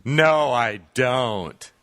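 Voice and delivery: slow, drawn-out mock kid reply; lightly acted kid, words dragged out; kid's reply. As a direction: stretch each word out as the kid. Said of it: "one of the kids responds".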